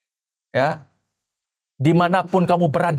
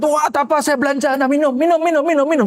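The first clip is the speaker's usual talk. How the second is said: boastful drinker; 8 semitones higher than usual. Retold or imitated. Man treating friends to drinks.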